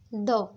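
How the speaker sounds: isolated द sound demo. Shown as a demonstration. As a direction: sound out द clearly for the class. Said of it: "next stroke आता है हमारा दी".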